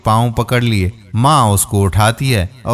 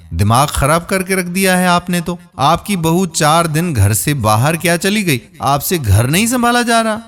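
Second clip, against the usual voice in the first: rising angry rant, climbing higher; angrier; 5 semitones higher than usual. Acted. Son berating his mother, getting angrier and higher. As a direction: berate her, pitch climbing to the end. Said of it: "فاروق مزید غصے میں آ گیا".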